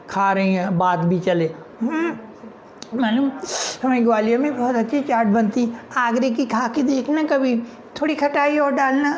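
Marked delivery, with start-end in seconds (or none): 1.8-9.1 put-on higher girlish voice; boasting about hometown chaat; hint of girly chatter; girl chatting.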